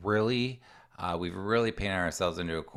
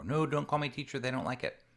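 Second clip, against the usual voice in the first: put-on higher, pleading teen voice; whiny kid protest; 7 semitones higher than usual. Teen begging parent not to call the teacher, whiny and higher. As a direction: beg like a panicked kid.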